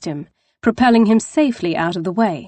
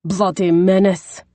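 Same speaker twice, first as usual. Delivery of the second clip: Scottish growl. Acted. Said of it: "he growled in a deep Scottish brogue".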